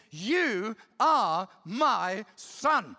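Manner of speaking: very slow, solemn, each word weighed; voice of God. Acted. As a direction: declare it slowly like a father's blessing. Repeating God's words, slowed.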